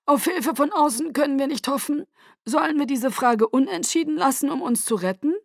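high, ringing address to the guard; rally the troops grandly; clear commanding voice. A narrator's reading. Aro addressing his guard.

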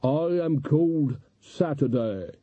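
slow, hollow undead drawl; zombie. A narrator's reading. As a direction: speak like a weary corpse. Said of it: "dead man".

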